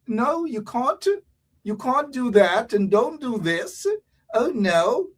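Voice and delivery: lightly put-on proper British accent; slow, fussy British refusal; mock British. Mocking Guyanese who think they're British, British accent. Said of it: "they're still British".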